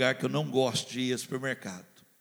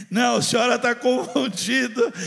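louder, higher embarrassed protest; flustered denial; 7 semitones higher, 7 dB louder than usual. Retold or imitated. Pastor embarrassed, wanting to deny being recognized, flustered. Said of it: "sabe aquela vontade de dizer".

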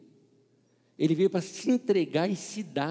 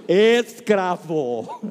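louder, slow solemn "Escravo"; slow mock solemnity; 10 dB louder, much slower than usual. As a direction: announce "Escravo" slowly, like a title. Repeated mock title.

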